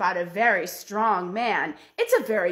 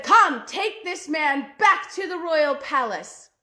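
higher, slow order to the soldiers; commanding general; 5 semitones higher, 4 dB louder, slower than usual. Acted. General ordering his soldiers, commanding. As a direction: bark out the command.

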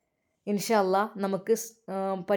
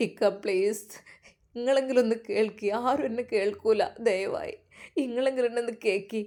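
desperate plea; 4 dB quieter than usual. Acted. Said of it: "പൊട്ടിക്കരഞ്ഞു".

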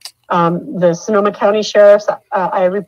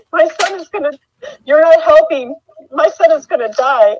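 desperate plea; 9 semitones higher, 4 dB louder than usual. Retold or imitated. Desperate last words to officer.

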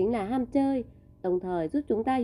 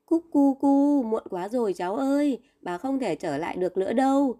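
bird coo then sad reply. Acted. Bird grandmother replies.

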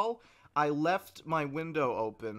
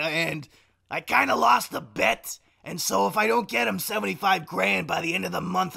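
put-on cousin voice; 3 semitones higher, 5 dB louder than usual. Prank call asking Blaine for money, put-on cousin. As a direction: sell the mafia story loudly. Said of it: "the impression I'm doing".

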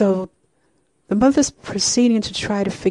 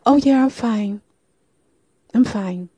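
forced cheerful; 4 semitones higher, 4 dB louder than usual. Retold or imitated. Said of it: "smile automatically comes back on her face".

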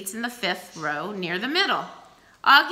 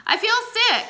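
trying to sound sick; 5 dB louder than usual. A narrator's reading. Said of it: "trying to sound sick".

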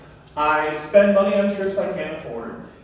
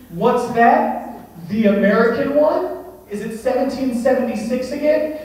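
higher, louder brash American bragging; cocky taunting; 6 semitones higher, 5 dB louder than usual. Pretend. Star Baker taunting Victoria and the British bakers, loud cocky bragging. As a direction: rub the win in everyone's face.

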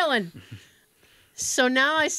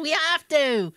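bad British accent, lightly pitched; imitation British woman; horrible British accent; 3 semitones higher, slower than usual. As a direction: insist like a mock-British phone lady. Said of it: "I do a horrible British accent".

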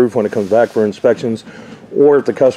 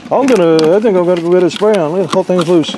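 raised, eager mock customer voice; imitating a customer; 7 semitones higher than usual. Roofer mimics a customer excited about spray-on. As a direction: play a naive customer bragging about spray-on. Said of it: "'cause they go".

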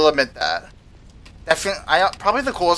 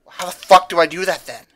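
higher and louder, fed up; exasperated; 3 semitones higher, 4 dB louder than usual. Real, not acted. Player asks the game again, louder and exasperated. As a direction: throw the question at the game.

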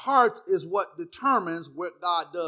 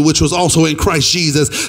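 loud, lower-pitched scripture proclamation; full-force preaching; 3 semitones lower, 9 dB louder than usual. Real, not acted. Preacher quoting scripture to the congregation, loud preaching. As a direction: proclaim the verse to the church.

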